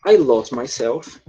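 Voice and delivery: slow, careful model sentence for students. Shown as a demonstration. Teacher modelling the sentence slowly for students. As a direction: spell it out slowly so they can repeat. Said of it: "você pode dizer o seguinte".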